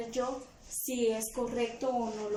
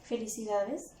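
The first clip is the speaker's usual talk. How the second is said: puzzled question. Shown as a demonstration. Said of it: "Estoy con una incógnita".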